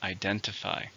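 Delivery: "Identify" with the weight on DEN; stress on second syllable. Shown as a demonstration. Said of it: "stress in the second".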